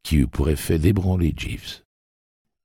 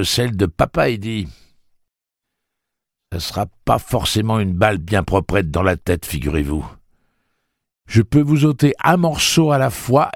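raised, hard voice, building to anger; menacing threat; 6 semitones higher, 4 dB louder than usual. A narrator's reading. Eddie threatening the townsfolk, raised and menacing. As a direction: threaten them, growing nastier.

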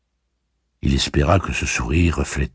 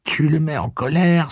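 lamenting; 11 semitones higher than usual. A narrator's reading. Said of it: "se lamenta petit Blaine".

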